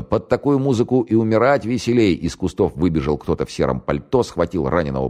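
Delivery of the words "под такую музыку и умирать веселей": high-pitched defiant jeer; raised, mocking call; shouted taunt. A narrator's reading. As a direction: call it out gleefully from cover. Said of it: "крикнул из домика связной".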